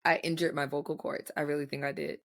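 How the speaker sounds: slightly hoarse, recovering voice. Real, not acted. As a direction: speak with a lingering rasp. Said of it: "my voice sounds so much better".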